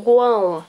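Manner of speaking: "guão" said as gwãw, the U glide clearly sounded; U pronounced. Shown as a demonstration. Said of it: "a gente pronuncia o U".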